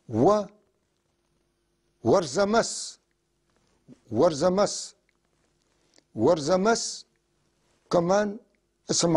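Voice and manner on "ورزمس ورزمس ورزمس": "ورزمس" said three times, each ending on a rise; repeated model word. Shown as a demonstration. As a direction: model "ورزمس" clearly for the class. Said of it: "لاحظوا عم بقطعوا". (تكرار "ورزمس" بنبرة صاعدة)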